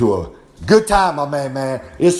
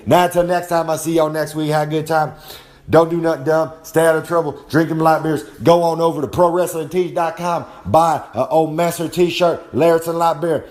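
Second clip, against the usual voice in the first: wrestling promo sign-off; 2 semitones higher than usual. Acted. Old Master plugs shirts and the tournament, promo voice. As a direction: hype the merch like a heel.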